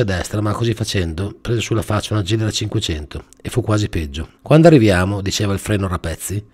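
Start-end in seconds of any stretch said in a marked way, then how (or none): 4.4-5.2 whiny question. Acted. Impatient brake asking.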